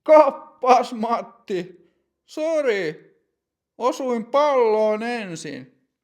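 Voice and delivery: high, loud, cocky mock apology; grinning taunt. Teppo grinning at Matti after the tackle, cocky. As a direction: grin while brushing it off. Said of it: "Teppo virnistää".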